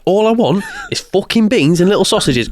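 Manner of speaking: high, plaintive retold complaint; exasperated mock plea. Shopper finds beans all sold out, exasperated mock plea. Retells frustrated hunt for beans.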